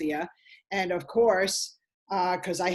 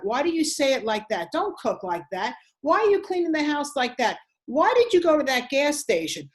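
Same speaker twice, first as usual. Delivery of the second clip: nagging controlling partner; 4 semitones higher than usual. Retold or imitated. A controlling partner nagging his wife about everything. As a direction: pick at her, one complaint after another.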